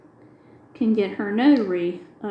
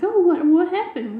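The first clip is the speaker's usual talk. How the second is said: surprised; 9 semitones higher, 4 dB louder than usual. Retold or imitated. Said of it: "She's like".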